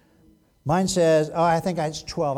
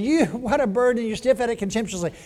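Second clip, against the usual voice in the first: lightly sarcastic, higher-pitched; mocking; 6 semitones higher than usual. God throws the people's words back, lightly mocking. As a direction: mimic their complaint with a touch of scorn. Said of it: "He's almost mocking them".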